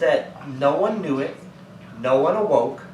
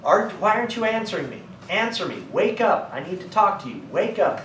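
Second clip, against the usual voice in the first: mock yell; 5 semitones higher than usual. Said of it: "starts yelling at him".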